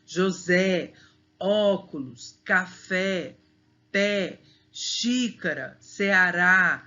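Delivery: strong open vowel in "José, óculos, café, pé, xícara, Ceará"; word list "José, óculos, café, pé, xícara, Ceará", each accented vowel sounded out strongly; open stressed vowels. Shown as a demonstration. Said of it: "a vogal fica com o som mais forte".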